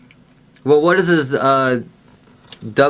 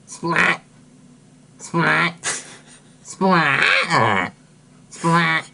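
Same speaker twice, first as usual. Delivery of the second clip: splat sound effect; 2 semitones higher, much slower than usual. Retold or imitated. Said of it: "a spatsy sounds something like this".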